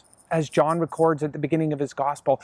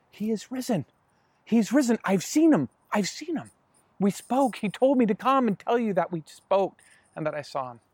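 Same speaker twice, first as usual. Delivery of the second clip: excited report; 4 semitones higher than usual. Retold or imitated. Mary excitedly reports resurrection.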